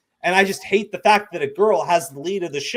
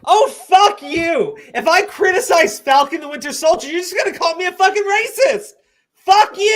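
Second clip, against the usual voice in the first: high, loud mock rage; swearing tirade; 11 semitones higher, 5 dB louder than usual. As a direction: rant and curse at full blast.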